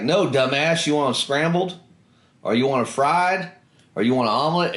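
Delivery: hammed-up mess sergeant listing egg choices; mock sergeant yell. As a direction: chew him out over the eggs. Mess sergeant mocking his answer.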